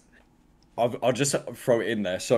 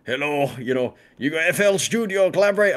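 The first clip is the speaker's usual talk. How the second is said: mock Russian accent, rising high; 4 semitones higher, 5 dB louder than usual. Russian stranger asking to collaborate, mock Russian accent. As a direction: imitate a Russian producer pitching a collab. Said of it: "talking in Russian".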